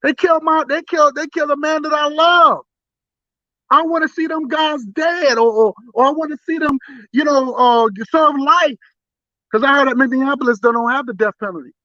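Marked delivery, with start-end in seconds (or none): 0.0-8.8 angry shout. Pretend. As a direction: shout it like a furious widow. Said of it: "She would have said".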